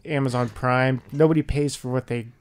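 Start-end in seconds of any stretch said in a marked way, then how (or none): 0.0-1.0 put-on slow, drawn-out old man; lightly voiced grumbly grandpa. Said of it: "Grandpa's on the radio".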